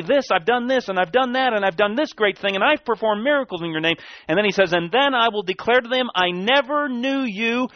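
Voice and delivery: lifted high, ringing scripture quote; preaching at full force. Acted. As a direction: proclaim it like a judgment from the pulpit. Preaching Yahshua's words at full force.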